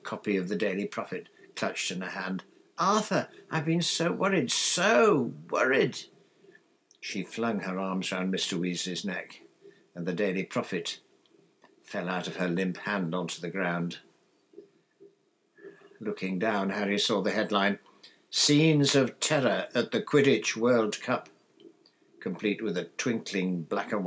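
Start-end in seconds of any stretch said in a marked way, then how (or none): 2.8-6.0 high, drawn-out distraught cry; anxious relief. A narrator's reading. Wife rushing to her husband after fearing for him, frantic worry. 18.3-21.3 slow, louder, higher headline read. A narrator's reading. Harry reading the newspaper headline, dramatic announcement.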